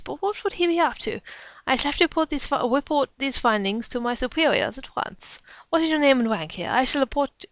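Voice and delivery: indignant lady official, lively pitch swings; self-important officer with a put-on accent; lady's put-on accent. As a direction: hold forth in an affected accent. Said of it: "it just seemed to fit her".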